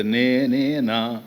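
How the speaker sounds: slow, drawn-out disbelieving question; gazing at an old photo, slowly wondering is this me; disbelief at own photo. Retold or imitated. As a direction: stretch out నేనేనా in amazement.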